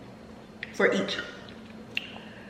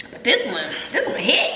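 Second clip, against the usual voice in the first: laughing; 3 semitones higher than usual. Real, not acted. Laughing about the soda.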